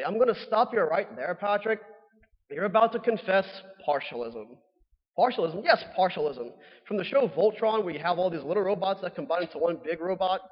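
lightly voiced Irish leprechauns bickering; bad Irish accent. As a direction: scold in a half-hearted Irish accent. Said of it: "my terrible Irish accent".

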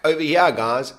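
retold shout. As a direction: hail someone across the water, lightly acted. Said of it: "'cause I shouted at them".

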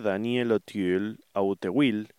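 Auteuil tried two ways, "oh-teel" then letter by letter as "ah-oo-te-weel"; unsure French pronunciation. Real, not acted. Speaker searching for the actor, Auteuil sounded out uncertainly. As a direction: stumble through Auteuil, ending on a Spanish-style spelling reading. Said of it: "cada vez lo digo de una manera distinta".

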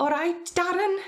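high-pitched Scouse greeting; attempted Scouse accent. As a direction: have a go at squeaky Scouse. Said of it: "Do your best Scouse accent".

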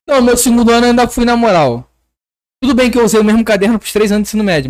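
loud speech clipping the mic; too hot on the mic, distorted. Real, not acted. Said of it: "estourando o áudio aí".

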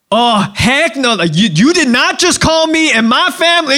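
high-pitched, indignant mock outburst; acted outrage. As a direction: play someone crazily offended, pitch leaping up. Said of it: "we'd get crazy".

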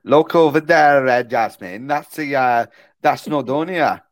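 a badly faked Welsh accent. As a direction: try a Welsh accent and miss. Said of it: "I just wish I could do a Welsh accent".

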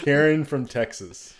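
put-on high falsetto valley-girl greeting; high mock caller voice. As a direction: chirp it like a bubbly caller.

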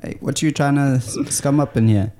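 a rough, high London accent put on; a fake British bloke, pitched high. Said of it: "what would you do?".

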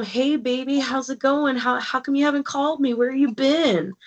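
high, oily come-on voice; mock sleazy sweet-talk to a woman; creepy flirting man.

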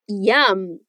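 low, pleased "Yum."; enjoy the bite; savoring yum. Shown as a demonstration. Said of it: "A gente diz".

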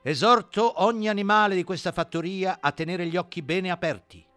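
solemn, weighty warning. Acted. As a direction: warn gravely, slowing near the end. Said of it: "aggiunse con solennità".

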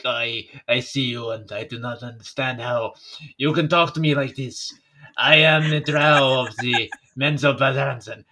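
put-on posh, precise French-accented Drow; haughty French accent. Drow looking down on a stranger, haughty French accent. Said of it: "Same way with a French accent".

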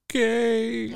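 high, small defeated okay; defeated little girl. Retold or imitated. Aunt imitating her daughter giving up crying. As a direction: give in like a beaten child. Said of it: "she goes".

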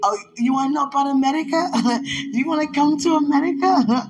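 a playful mock-questioning film quote, broken by laughs; Chris Tucker. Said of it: "Chris Tucker said in".

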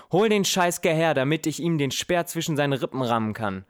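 high, loud furious bellow; roaring with rage. Acted. King roars at his son at the dinner table, furious. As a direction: rage at him, voice cracking high. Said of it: "brüllt er wutschnaubend".

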